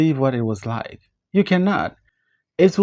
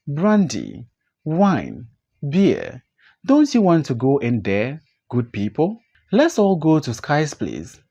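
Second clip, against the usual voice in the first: put-on amiably drunk. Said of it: "Our man is amiably drunk".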